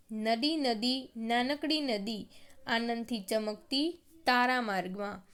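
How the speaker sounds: slow, measured verse reading with lifted openings; slow classroom poem reading; poem recitation. Acted. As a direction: read each short phrase as verse, pausing between.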